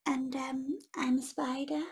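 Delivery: a small spider, barely there; tiny spider voice. Acted. Spider answering the troll, small and soft. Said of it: "said a tiny black creature".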